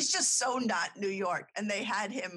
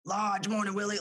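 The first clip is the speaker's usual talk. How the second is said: put-on New York accent; 3 dB louder than usual. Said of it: "he loves to let it fly".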